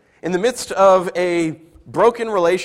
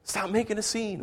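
dismissive husband; 4 semitones higher than usual. Retold or imitated. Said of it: "essentially is what he's saying".

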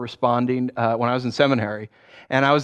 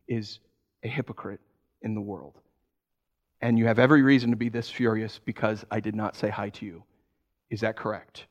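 calm reflective listening; 3 semitones lower, 4 dB quieter than usual. Retold or imitated. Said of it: "I said".

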